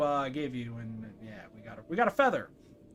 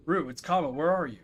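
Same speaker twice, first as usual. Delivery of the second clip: Kamo. Acted. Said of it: "Come on, Kamo, you try".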